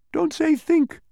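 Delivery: a creature on Milo's shoe warning him; tiny creature scolding. A narrator's reading. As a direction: snap the rule at him like a tiny official. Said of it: "said one, sitting on his shoe".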